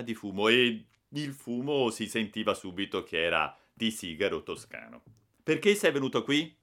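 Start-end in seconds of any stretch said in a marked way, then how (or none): 5.4-6.6 loud threatening demand; older boy threatening a newcomer, menacing. Acted. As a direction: confront the intruder with menace. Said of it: "con aria minacciosa".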